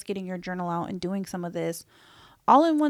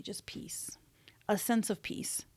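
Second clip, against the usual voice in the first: hushed whisper; 11 dB quieter than usual. Real, not acted. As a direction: breathe the words out in a soft whisper. Describing calm in body.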